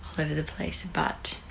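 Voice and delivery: hushed, tired whisper. Real, not acted. Whispering after party at night.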